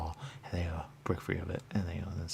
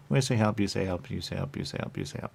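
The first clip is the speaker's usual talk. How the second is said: building down; 5 dB louder than usual. Real, not acted. Repeated phrase fading down.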